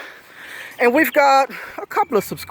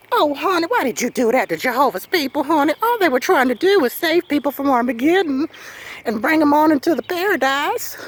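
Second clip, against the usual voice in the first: higher, sugary put-on believer; lightly voiced sugary churchgoer; mock sweet voice; 3 semitones higher than usual. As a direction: parody a pious sweet-talker. Mocking voice of a believer.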